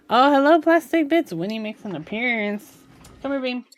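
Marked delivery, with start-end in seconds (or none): 0.1-1.3 pet greeting. Real, not acted. Streamer greeting her pet on stream, high cooing baby talk. 3.2-3.6 high coaxing call to the dog. Real, not acted. Streamer calling her dog over, high coaxing baby talk.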